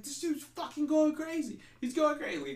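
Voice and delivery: high, worried mock cry; alarmed soldier. Squadmate warning that the captain is losing it, high alarmed voice. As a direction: squeak it out in alarm about the captain.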